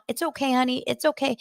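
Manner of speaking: high-pitched soothing mom voice; keeping it strong. Retold or imitated. Mom comforting her hurt boy, acted brave reassurance. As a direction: imitate a mother holding it together to comfort. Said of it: "she, like, keeps it strong".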